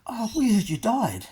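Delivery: high-pitched retold gossip; imitated concerned people. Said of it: "People going".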